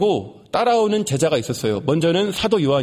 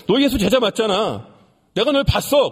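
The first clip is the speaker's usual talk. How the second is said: rising, pushy accusation, higher at the end; accusing demand; 6 semitones higher than usual. Acted. A relative of the servant corners Peter, accusing and higher. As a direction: corner him: you were there.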